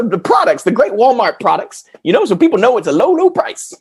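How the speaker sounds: high, goofy clown voice; lightly played silly clown. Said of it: "your clown voice".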